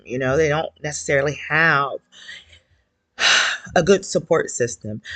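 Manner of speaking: nervous, shaky voice. Real, not acted. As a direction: voice trembling with nerves. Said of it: "excuse my shaky voice".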